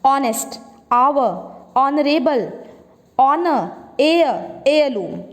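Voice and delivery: ऑनेस्ट, आवर, ऑनरेबल, ऑनर, एयर, एयरलूम each said with no h sound at the start; teacher demo of silent h, ऑनेस्ट starting on the o sound. Shown as a demonstration. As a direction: clear word-by-word model of ऑनेस्ट आवर ऑनर with the h dropped. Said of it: "मैं बोल के दिखाती हूँ".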